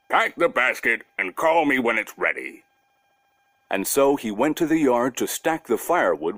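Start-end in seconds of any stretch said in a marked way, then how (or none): 0.1-2.6 lightly voiced bear, plainly agreeing; a bear going along with the plan. Bear telling Masha to call him, lightly voiced bear. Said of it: "answered the bear".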